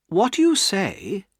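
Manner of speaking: slow, measured and unbothered; very calm. Acted. Estella coolly answering Pip's confession, very calm. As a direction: let each word fall slowly, untouched. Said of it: "said Estella very calmly".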